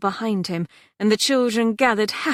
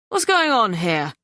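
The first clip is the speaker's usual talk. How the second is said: calm steel; 5 dB louder than usual. A narrator's reading. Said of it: "steel in that deep, calm voice".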